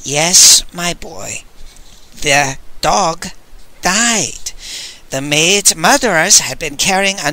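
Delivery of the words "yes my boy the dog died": gentle, kindly reassurance; old man relenting, kindly telling the boy. Acted. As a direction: soften it for the boy. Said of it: "said in a kindly voice".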